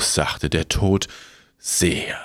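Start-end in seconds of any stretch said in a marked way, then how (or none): 1.6-2.2 grim reaper voice. Acted. Death voice.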